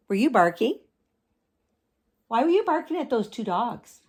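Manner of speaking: bright high doggy voice; pet talk. Real, not acted. Cooing questions to dog.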